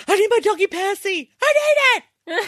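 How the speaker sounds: put-on high, pleading little-kid voice; imitating whiny toddler. Mother imitating her son begging for his pacifier at bedtime. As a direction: whine it like a sleepy toddler. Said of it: "we'll be going to bed".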